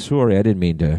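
mock Canadian apology; put-on Canadian accent, apologetic. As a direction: round the "sorry" like a Canadian. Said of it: "he's got a Canadian accent".

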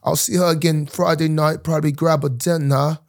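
sustained put-on London accent; playful amateur London accent; mock London accent. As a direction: keep chatting in a fake London accent.

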